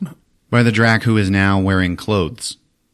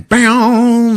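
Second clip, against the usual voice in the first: high, loud, stretched-out burst; hammed-up explosive exclamation; shouted sound effect; 7 dB louder than usual. Imitates explosion in story.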